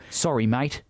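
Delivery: lightly put-on Aussie; casual, friendly Australian apology; Australian accent. Shown as a demonstration. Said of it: "say that in an Australian accent".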